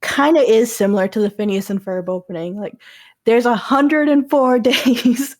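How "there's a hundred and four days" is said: each word segmented, slow and deliberate; overemphasized words. Shown as a demonstration. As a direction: hit every word of "hundred and four days" separately. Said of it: "really overemphasize each word".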